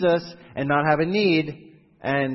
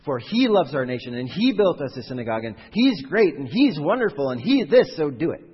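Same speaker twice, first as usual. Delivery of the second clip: pleading mock petition that climbs louder; worked-up elders pressing Jesus for the centurion, a louder mock plea; building mock plea; 5 dB louder than usual. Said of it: "They're saying".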